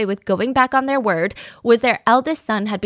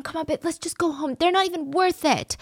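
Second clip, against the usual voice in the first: soothing husband; 7 semitones higher, 3 dB quieter than usual. Retold or imitated. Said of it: "He would try to calm his wife down".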